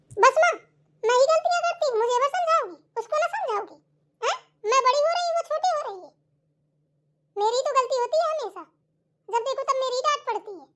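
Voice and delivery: put-on aggrieved teenage daughter protesting to mom; whiny daughter. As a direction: whine that you always get blamed. Elder daughter complains to mother.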